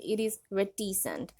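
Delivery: "reticent" in British pronunciation, crisp t in the middle; British accent. Shown as a demonstration. Teacher showing learners the British pronunciation of reticent, British accent. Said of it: "if you follow British accent".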